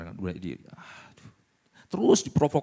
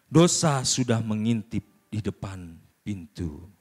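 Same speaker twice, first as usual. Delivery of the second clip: scripture reading; 2 semitones lower, slower than usual. Acted.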